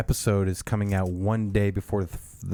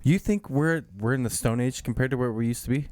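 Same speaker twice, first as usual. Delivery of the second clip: incredulous; 3 semitones higher, faster than usual. Retold or imitated. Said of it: "Guys, are you fucking serious?".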